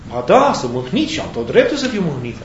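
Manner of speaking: swooping, insistent sulky reply; mildly hammed-up wounded protest; aggrieved retort. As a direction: answer back, standing on your right to sulk. Acted dialogue, Jonah answers God.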